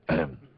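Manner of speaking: pointed throat clear. Real, not acted. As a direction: clear your throat meaningfully. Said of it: "Cough that a little louder".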